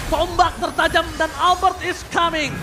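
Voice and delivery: excited caster call; fighting game announcer. Real, not acted. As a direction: punch up the hype. Caster hypes incoming hero. (seruan caster bersemangat)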